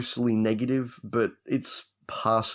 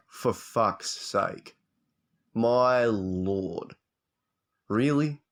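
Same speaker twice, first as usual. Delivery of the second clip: retold weary exasperation at the news; exasperated groan; much slower than usual. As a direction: sigh it out like you've had enough. Retold reaction to merger news.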